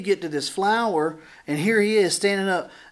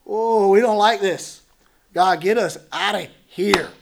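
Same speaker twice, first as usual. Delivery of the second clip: louder, higher panicked cry for help; panicked pleading; 4 semitones higher, 9 dB louder than usual. Retold or imitated. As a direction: beg God to get you out, alarmed. People voiced begging God.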